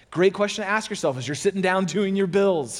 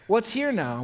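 higher, lighter repeat; 5 semitones higher, slower than usual. Shown as a demonstration. Pastor repeating the question, lifted. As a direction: lift the second "What's here now?". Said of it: "a great question to ask is".

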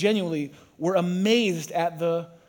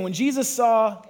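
higher, louder call to the crowd; louder call again; 5 semitones higher, 4 dB louder than usual. Shown as a demonstration. Preacher prompting the congregation again, louder and higher. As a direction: push them to shout it back. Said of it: "Say it again".

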